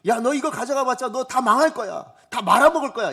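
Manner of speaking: loud, warning father's rebuke; angry scolding. Pretend. Father shouting a warning at his greedy son. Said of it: "이렇게 얘기하셔야 될 거 아니에요".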